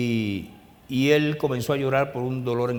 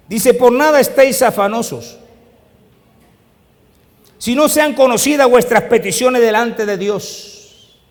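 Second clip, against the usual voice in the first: alto, fuerte y enfático, como en el púlpito; predicación a plena fuerza; 10 semitones higher, 10 dB louder than usual. Acted. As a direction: martilla cada frase a la congregación. (predicación fervorosa y potente)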